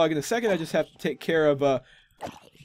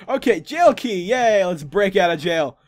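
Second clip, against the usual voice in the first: excited cheer; 3 semitones higher, 5 dB louder, slower than usual. Real, not acted. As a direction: celebrate finding the key. Cheering finding key.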